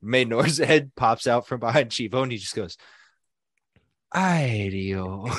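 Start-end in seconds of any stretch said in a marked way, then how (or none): 4.1-5.4 imitating a shocked cry of Ay Dios; startled mock wail with laughter; shocked exclamation. Imitating Maynor's shocked outburst.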